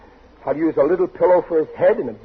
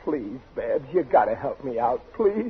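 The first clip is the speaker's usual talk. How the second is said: begging; 2 semitones lower, 7 dB quieter than usual. Acted. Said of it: "It's no use begging me".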